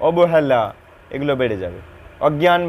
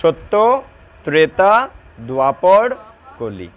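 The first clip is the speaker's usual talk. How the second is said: staccato; slower than usual. Shown as a demonstration. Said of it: "কেটে কেটে বলো।".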